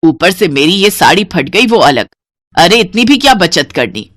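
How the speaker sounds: shouting. Acted. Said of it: "जोर से चिल्लाते हुए कहती है".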